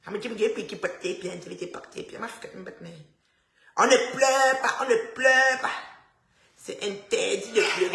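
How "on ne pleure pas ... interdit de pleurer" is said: insist, rule of the house. Acted. Repeating the rule louder.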